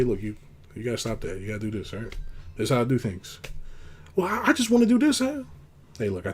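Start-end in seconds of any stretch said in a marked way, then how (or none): 0.0-3.4 calm firm telling. Shown as a demonstration. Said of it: "You just say". 4.2-5.4 mock whiny reply.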